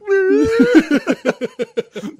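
very high, loud mock wail; imitated crying. Comic recalling crying behind a bar, mock wail. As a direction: act out a bawling squeal. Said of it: "I almost cried".

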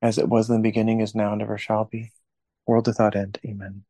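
steady reverent prayer voice; prayer recitation. Acted. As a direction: recite it like a rosary leader. Leads a rosary prayer.

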